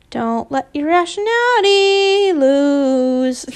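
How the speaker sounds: slow lilting sing-song; sing-song nudge. Shown as a demonstration. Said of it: "I said it in a sing-song voice".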